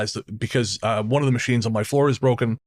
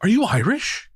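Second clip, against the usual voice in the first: put-on elderly lady; 10 semitones higher, slower than usual. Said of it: "She says".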